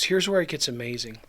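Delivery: hushed unvoiced aside; whisper. Real, not acted. Preacher hushing the congregation before the miracle, whispering. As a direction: lean in and whisper it.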